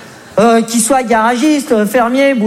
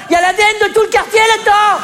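rushed indignation; 8 semitones higher, faster than usual. Acted. Comic punchline, fast and high.

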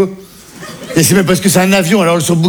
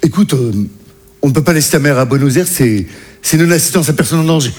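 commandant imité; 3 semitones lower than usual. Retold or imitated. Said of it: "il m'a dit".

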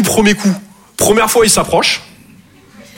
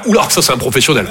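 lower, admiring murmur; impressed onlookers; 6 semitones lower, faster than usual. Retold or imitated. Customers admiring the paint-covered guy, low impressed voice. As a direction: sound impressed at the pro. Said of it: "Tout le monde va faire".

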